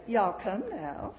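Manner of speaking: slow, lightly drawled Southern invitation; mock Southern drawl. Speaker mocking the Mayberry Southern cliché, slow light Southern drawl. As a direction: stretch it out like a TV Southern stereotype. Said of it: "not one of you has ever heard me say".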